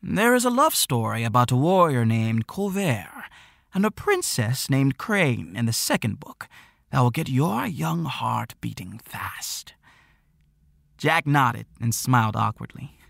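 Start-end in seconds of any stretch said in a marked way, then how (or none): 0.0-9.7 lightly voiced old storyteller, hushed at end; a gentle older man sharing a secret; old shopkeeper voice. Old shopkeeper speaks to Jack.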